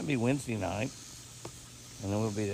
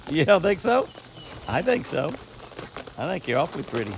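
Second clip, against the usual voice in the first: sweet talk to an animal; 2 semitones higher than usual. Real, not acted.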